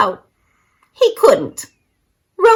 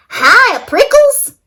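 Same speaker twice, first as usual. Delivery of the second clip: high, bright hail across the yard; cheerful shout; 12 semitones higher, 4 dB louder than usual. A narrator's reading. Jackrabbit Rosie shouting hello to Hank as she dashes by. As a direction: call out to him gleefully. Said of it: "she shouted".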